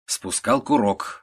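ordinary delivery

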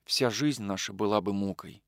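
soft, low resigned words; quietly. A narrator's reading. Anna quietly tells Nikolai their life would be torment, soft voice. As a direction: say it quietly, sadly. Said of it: "сказала она тихо".

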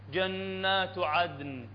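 جنات عدن very slow, with ringing held ن; drawn-out, resonant جنات عدن; musical delivery. Shown as a demonstration. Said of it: "موسيقى".

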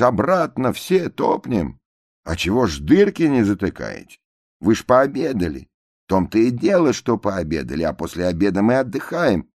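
lightly voiced lazy crowd; passengers' whiny excuse. A narrator's reading. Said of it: "спрашивает лейтенант". (ноющие пассажиры)

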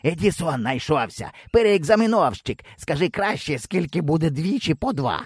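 put-on high jeering kid with a laugh; a boy mocking the would-be Edison. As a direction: ridicule him.

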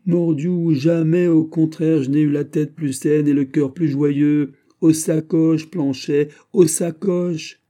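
high, loud, exultant tirade; excited exclamation. A narrator's reading. D'Artagnan proving to Planchet he is sane, excited exclamation. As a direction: cry it out with soaring joy. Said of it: "s'écria D'Artagnan".

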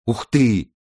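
mumbled with mouth full of pie. A narrator's reading. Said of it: "пробормотала она с набитым ртом".

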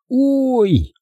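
high, drawn-out "ow"; sudden high cry of pain; escaped yelp. A narrator's reading. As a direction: yelp as if pricked by a splinter. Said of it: "вырвалось у Чарли".

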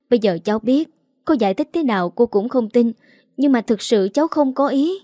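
rising, tearful pleading, only lightly voiced; a hint of a guilty girl begging through sniffles; mild sniffling plea. Young model pleads with the older lady, a touch tearful. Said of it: "Cuối cùng cô ta thút thít".

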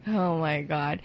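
usual speaking voice

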